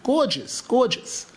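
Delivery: high, swooping gush of admiration; awed admiration. Retold or imitated. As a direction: marvel at it, pitch leaping up. Marvelling at the palace.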